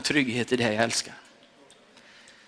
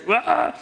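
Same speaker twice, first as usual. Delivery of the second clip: retold scream; 5 semitones higher than usual. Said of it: "jag skriker".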